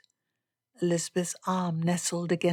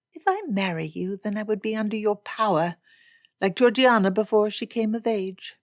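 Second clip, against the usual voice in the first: Elizabeth doubting; 3 semitones higher, 4 dB louder than usual. Acted. Elizabeth fears being under Darcy's power, mildly challenging. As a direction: press him with a worried challenge.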